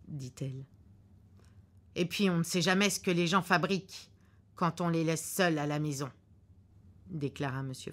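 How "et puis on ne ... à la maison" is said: gruff husband. Acted. Husband in the car predicting a cancelled flight, curtly sure. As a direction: lay out the bad news like a know-it-all husband.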